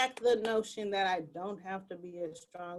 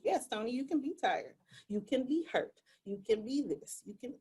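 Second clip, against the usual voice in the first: softer, quicker reassurance; quiet comforting words; reassuring; 5 dB quieter, faster than usual. Retold or imitated. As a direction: soothe a tired friend softly. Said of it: "Tell me it's okay".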